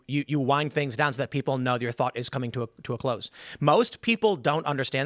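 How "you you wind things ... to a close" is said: "to a close" sinking lower and softer; winding down. Shown as a demonstration. Showing how to end a thought, falling to "close". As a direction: let the line fall to "close". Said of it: "it's very important when you're ending your train of thought".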